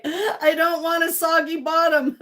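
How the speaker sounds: slow mock British accent on soggy bottom. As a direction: put on a baking show accent. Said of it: "You read that in an accent?".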